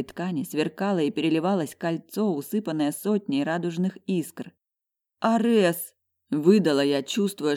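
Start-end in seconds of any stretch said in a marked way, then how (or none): 5.2-5.9 startled gasp. A narrator's reading. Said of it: "голос отказывается повиноваться".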